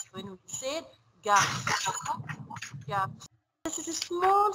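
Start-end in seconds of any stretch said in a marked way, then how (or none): 1.2-3.3 "garçon" with the ç said as an s; teacher modelling the cedilla's s in "garçon"; soft C. Shown as a demonstration. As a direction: say "garçon" with a soft s sound in the middle. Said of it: "it will pronounce like C".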